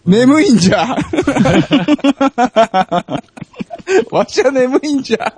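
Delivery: high creaky grumpy grandpa; sleepy old geezer whining; old man voice. Pretend. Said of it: "じじいおる、じじい。". (眠たげなおじいさんの声)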